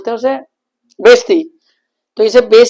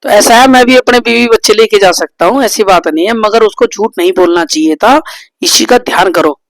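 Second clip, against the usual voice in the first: louder, insistent reply; husband defending himself, voice raised; heated defence; 7 dB louder than usual. Real, not acted. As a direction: stand your ground. Husband argues back.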